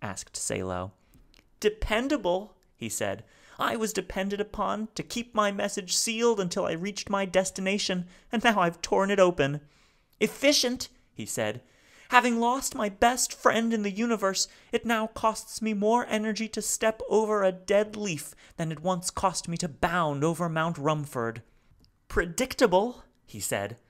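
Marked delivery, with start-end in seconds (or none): 1.6-2.6 high, louder, halting alien voice; speaking haltingly. Acted. Salo's voice. 3.6-9.6 high, louder, halting alien voice; speaking haltingly. Acted. Salo's voice. 10.2-10.9 high, louder, halting alien voice; speaking haltingly. Acted. Salo's voice. 12.1-21.4 high, louder, halting alien voice; speaking haltingly. Acted. Salo's voice.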